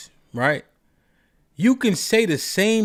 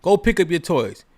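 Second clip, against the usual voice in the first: put-on telling the child; 3 semitones higher than usual. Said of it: "If I say".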